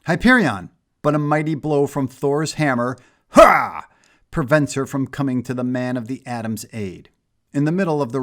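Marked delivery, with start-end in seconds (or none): 0.0-0.7 a loud, high cry of alarm. A narrator's reading. Power Princess calls to her fallen teammate, loud cry. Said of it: "crying out". 3.3-3.9 a short, loud, high "Ha!" with the swing; battle shout. A narrator's reading. Thor strikes Power Princess with his hammer, sharp shout. Thor's battle grunt with blow.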